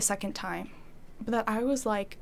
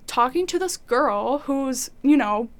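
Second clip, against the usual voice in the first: resentful complaint; 4 dB louder than usual. Retold or imitated. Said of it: "upset with God".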